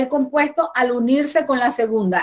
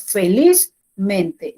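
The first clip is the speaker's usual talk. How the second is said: felizmente said slowly, stress held on the first part, liz; teacher spelling out felizmente with stress on liz; deliberate classroom model of felizmente; slow careful stress; 3 semitones lower, much slower than usual. Shown as a demonstration. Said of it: "El acento permanece en la primera parte".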